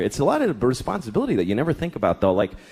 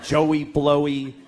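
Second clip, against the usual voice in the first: slow, singsong taunting; mocking schoolkids; slower than usual. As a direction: drag it out like a kid teasing. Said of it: "they go".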